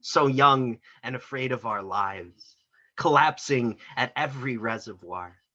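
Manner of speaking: deliberate verse recital, stressed openings and falling ends; poetry reading. Acted. Poet reading poem about psych ward release, poetry reading. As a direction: recite it line by line, leaning into key words.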